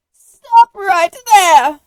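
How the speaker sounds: very loud slow command; shouted. A narrator's reading. Granny bursts in and shouts at the wolf. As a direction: shout her down. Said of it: "shouted Granny".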